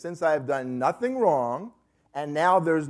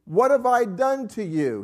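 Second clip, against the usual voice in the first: sarcastic challenge, higher and drawn out at first; Job; 4 semitones higher, slower than usual. Acted. Job asking God directly what he has done, sarcastic. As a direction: ask it pointedly, with mild sarcasm. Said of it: "He are sarcastically asked".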